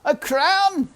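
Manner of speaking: loud jeering; loud scornful uncle; Uncle mocking. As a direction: scoff it like a rough man. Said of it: "Uncle laughed".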